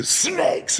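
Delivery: mock scream on one word; sudden yelped word after calm talk. Hypnotist springing the phobia word on the woman, screamed. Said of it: "And I screamed it".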